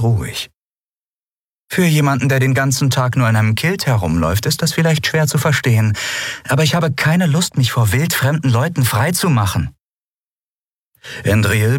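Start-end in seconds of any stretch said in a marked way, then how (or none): 1.7-9.7 höher gesetzte Frauenstimme, leicht spöttisch; junge Frau, spöttisch. A narrator's reading. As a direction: spitz gegen den Kilt-Träger. Lien spricht, Figur vorgelesen. (etwas höhere, spöttische Frauenstimme)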